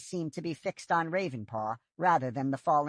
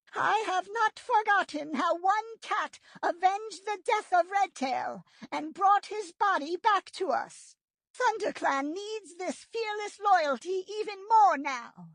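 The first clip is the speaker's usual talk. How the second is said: solemn leader voice. A narrator's reading. Leader praises a loyal warrior.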